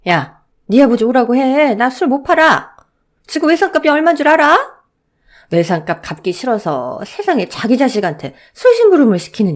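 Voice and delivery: put-on high, loud scolding of a child; angry shop owner. Shop owner scolding the boy over his father's tab, loud and angry. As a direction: shopkeeper yelling at the boy about the unpaid tab.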